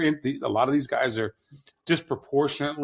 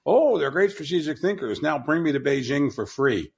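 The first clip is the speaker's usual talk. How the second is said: mocking sycophant; 3 semitones higher than usual. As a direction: ham up a fawning flatterer begging a free trip.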